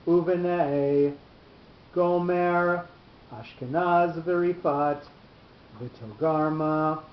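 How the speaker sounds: slow, each name set apart by long pauses; overemphasized pauses. Shown as a demonstration. Teacher reading a Torah verse aloud to a student, pausing hard after each name. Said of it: "we're gonna overemphasize the pauses as we read it".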